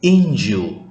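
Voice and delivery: Injo again, stress on the I. Shown as a demonstration. Teacher repeats Injo for students, stress on the I. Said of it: "Tekannya di, di I".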